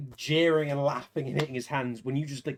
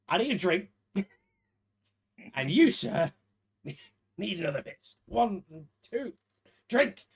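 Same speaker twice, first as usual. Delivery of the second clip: cocky brawler; 5 semitones higher than usual. Acted.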